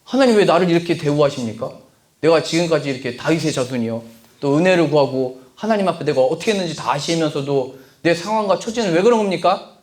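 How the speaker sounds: indignant complaint to God; demanding prayer. Shown as a demonstration. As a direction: argue your case with God. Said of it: "이렇게 따지면 안 되는 겁니다".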